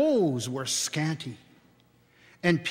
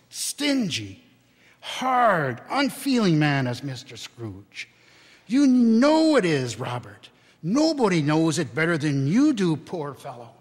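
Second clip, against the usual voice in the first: angry tirade; 4 dB louder than usual. Acted. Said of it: "cried Missus Cratchit".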